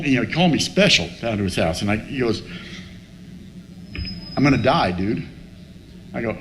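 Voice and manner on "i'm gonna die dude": retold in a low, sober voice; understated, sinking at the end; grave confession. Sick friend breaks the news to his pal, grave confession.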